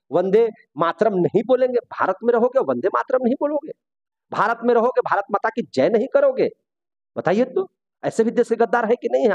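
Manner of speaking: high-pitched, heated rhetorical questions; indignant challenge. Real, not acted. Teacher challenging those who refuse patriotic slogans, indignant. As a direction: challenge them, incredulous and indignant.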